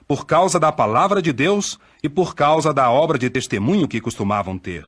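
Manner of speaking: ordinary talk, nothing marked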